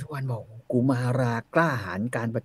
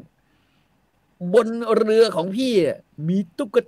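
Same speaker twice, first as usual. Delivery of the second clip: coaxing big brother; 8 semitones higher, much slower than usual. Retold or imitated. Big brother coaxes little sister.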